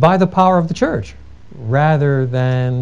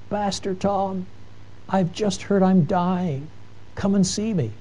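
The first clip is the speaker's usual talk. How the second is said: put-on frail, much softer, higher voice of a dying old lady; weak old voice; 4 semitones higher, 10 dB quieter, slower than usual. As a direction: barely voice it, like an old woman on her deathbed. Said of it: "a weak voice comes across".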